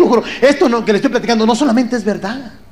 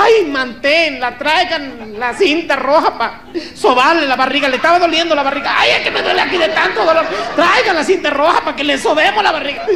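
fussing village woman; 6 semitones higher than usual. Retold or imitated. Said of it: "dijo una".

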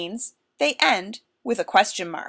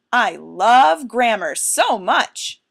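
louder and very slow, every word leaned on; enthusiastic exclamation; 6 dB louder, much slower than usual. Shown as a demonstration. Teacher modelling strong emotion, slow, loud and gushing. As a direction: gush about grammar like it's a treat. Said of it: "express a strong feeling".

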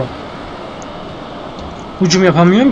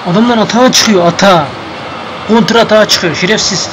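angry at referee; 3 semitones higher than usual. Real, not acted. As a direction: rant at the referee as the counterattack comes. Yelling at the referee mid-game.

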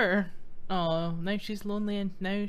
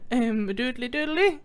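Ned Flanders voice; 3 dB louder than usual. Acted. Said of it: "He looks like Flanders, so I'm trying to give him a voice".

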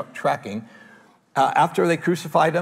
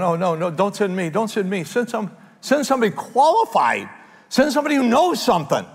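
mock panic; 6 semitones higher than usual. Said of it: "my knees would be buckling".

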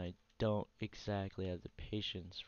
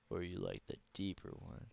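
lower, softer take; deeper voice; 3 semitones lower, 5 dB quieter than usual. Pretend. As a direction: sink into a deep low voice.

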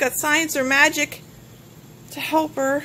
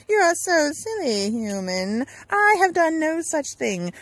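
higher playful sorceress voice with a giggle; teasing witch; 4 semitones higher, slower than usual. Acted. Lilith teases the human, higher and amused.

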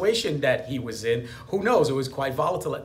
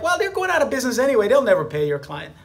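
lightly voiced excuse-making inner voice; mild mock tempter; lizard brain voice; 3 semitones higher than usual. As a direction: coax yourself out of it, half mocking. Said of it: "the lizard brain says stuff like".

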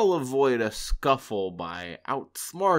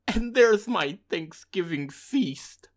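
lower, slow gloating chuckle; chuckling; 4 semitones lower, 8 dB louder than usual. A narrator's reading. Fox eyes the turkey, slowly chuckling. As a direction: savor it with a chuckle. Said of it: "he chuckled".

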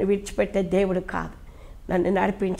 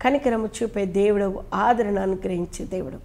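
fervent prayer. Acted. Pastor praying over the congregation, fervent pleading. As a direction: pray aloud to God, rising and falling with feeling.

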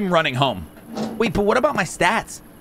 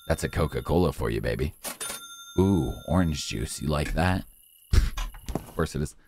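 put-on low, soft cooing to a baby; mock tender baby talk, much lower and softer; 14 semitones lower, 6 dB quieter than usual. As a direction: coo gently at the little one. Baby-talk to game child.

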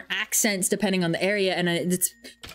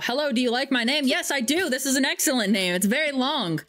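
higher-pitched mock polite exchange; chirpy self-introduction; 5 semitones higher than usual. Acting out meeting someone with the long name, mock chirpy. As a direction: answer yourself in a raised, eager pitch. Acts out both sides of greeting.

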